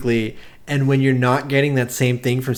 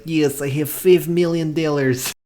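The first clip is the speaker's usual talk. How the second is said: put-on Russian accent; 4 semitones higher than usual. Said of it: "that's how he sounds in this movie".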